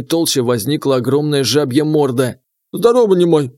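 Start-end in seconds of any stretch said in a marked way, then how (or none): 2.7-3.5 gurgling frog creature; bubbling watery voice; gurgling alien voice. Acted. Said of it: "пробулькала морда".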